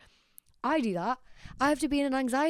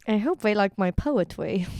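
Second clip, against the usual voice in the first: put-on voice, drawing out the poetry line; lightly mock his earnest delivery; imitating a man, slightly affected; mock suitor voice; 6 dB louder than usual. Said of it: "And he was like".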